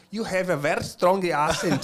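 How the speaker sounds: put-on light Indian accent in English, a bit slow; lightly imitating an Indian colleague's accent. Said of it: "falou com um sotaque indiano".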